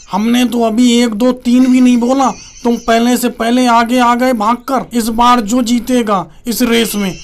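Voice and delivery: lightly voiced patronizing leader; hint of an elder politician impression; explaining senior politician. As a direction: lay down the rules in a mock statesman voice.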